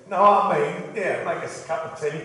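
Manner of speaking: mock East End London accent; cheeky East End London accent. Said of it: "we weren't allowed to talk like that".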